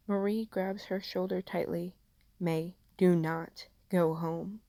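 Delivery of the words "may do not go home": urgent warning. Acted. Marie gripping her shoulder, warning.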